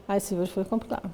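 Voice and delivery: imitating a patient mumbling softly inward; mumbled and low. Therapist imitates her patient mumbling, soft and inward. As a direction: swallow the words, say it quietly into yourself. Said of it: "ela ainda fala pra dentro e baixo".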